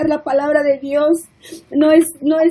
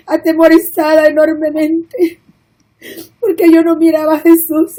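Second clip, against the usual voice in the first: crying. Real, not acted. Reliving terror in hell vision.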